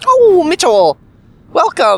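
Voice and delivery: put-on Minnesota accent, very high and sing-song. Retelling a movie scene, the aunt welcomes mitchell in a minnesota accent voice. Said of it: "got like the Minnesota voice".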